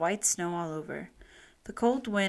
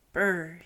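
cold brr through the lips; shivering brr; 3 dB louder than usual. Acted. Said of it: "wings held close to his chest".

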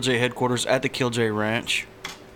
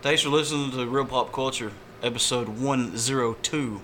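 flat robotic readout; monotone robot announcer; 4 dB quieter than usual. Real, not acted. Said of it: "Why do I say that like a robot?".

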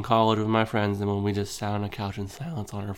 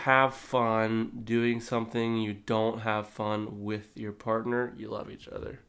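slow and halting; slower than usual. Real, not acted. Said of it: "Say that again slower".

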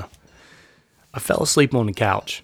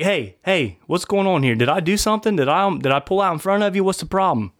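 higher, bewildered questioning of a stranger; puzzled, higher-pitched retold confrontation; raised confused challenge; 8 semitones higher than usual. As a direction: ask what's wrong, pitched up.

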